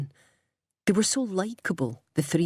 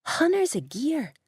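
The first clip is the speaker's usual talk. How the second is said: mimicking mum; 10 semitones higher than usual. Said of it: "mimicking her mum".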